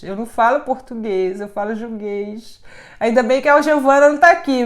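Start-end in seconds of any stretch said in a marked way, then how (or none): 0.0-2.6 quiet aside. Shown as a demonstration. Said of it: "traduzir meu juguês".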